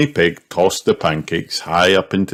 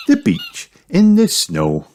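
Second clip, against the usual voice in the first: surprised; 14 semitones higher than usual. A narrator's reading. Mummy surprised at beach.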